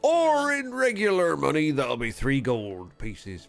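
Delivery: put-on Yorkshire accent. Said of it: "lose a bloody Yorkshire accent".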